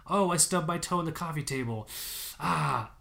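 lightly voiced fake complaint; mock minor whining. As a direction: make fun of a tiny stubbed-toe pain.

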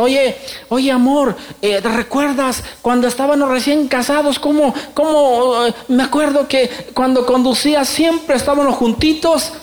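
high, coaxing wife voice; sweet wife. Retold or imitated. Wife in the car reminds husband of newlywed days, high and coaxing. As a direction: coax him like a wistful wife, pitched high.

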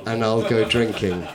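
mock-gothic verse read with big theatrical swings; dramatic poem recital. Comedian performs his Poe parody to the audience, theatrical. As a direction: recite it like a doomed Victorian poet.

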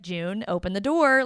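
even, unruffled instruction; calm, not mad. Retold or imitated. Imitating the hero asking June to open up, calm and not mad. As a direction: ask without any anger, cool as a cucumber. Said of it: "he's not even, like, mad".

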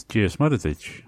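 "Dios Mother Ditch" said as Irish "Dia is Muire dhuit", stress on "Mother"; Irish reply. Shown as a demonstration. Teacher demonstrating the Irish reply to hello, careful pronunciation. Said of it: "to which the reply is".

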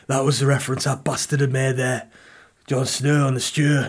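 lightly put-on accent for a viewer's quote; Game of Thrones voice. Viewer gets the Jon Snow reference, light Game of Thrones voice. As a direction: slip lightly into the fantasy character's voice. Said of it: "Why do I speak like that?".

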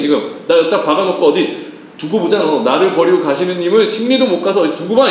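muttered sulking, a touch of grievance; sulky uncle. Acted. Abraham grumbling about the nephew who left him, sulky. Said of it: "삐져 있었다니까요".

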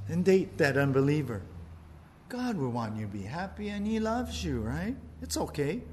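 a hint of a sly tempter; Satan whispering. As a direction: sweet-talk them toward the leap. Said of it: "Satan whispers in your ear and says".

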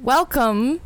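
a hint of an English accent. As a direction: try your dad's English accent. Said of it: "how I do an English accent".

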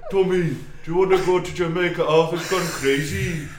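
hammed-up Brummie gangster, half laughing; Brummie accent. Gangster telling Tommy about Arthur, parody Brummie accent. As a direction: rush in, then drag the ending in mock Brummie. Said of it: "Why can't we do Brummie accent".

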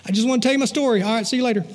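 offhand, high goodbye; breezy sign-off. Retold or imitated. Stranger abruptly ends his story.

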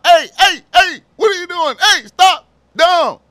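high, loud, fast mock cop shouting; panicked cop yelling. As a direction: yell like a cop who never says police. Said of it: "talking about".

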